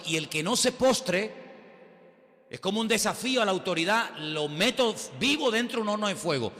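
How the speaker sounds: a lightly voiced tyrant king; threatening king.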